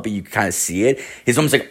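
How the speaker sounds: ordinary delivery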